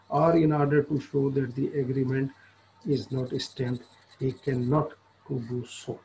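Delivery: reading the law text aloud very slowly, word by word; slow statute reading. Acted. Lecturer reading the statute to law students, slow dictation.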